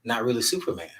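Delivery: retold letting a little girl down easy; gentle dad talk. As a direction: haltingly break it to your child. Father gently confessing to young daughter.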